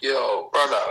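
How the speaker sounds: whispered yo brother; whispering. Acted. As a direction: breathe it, no voice. Whispered greeting.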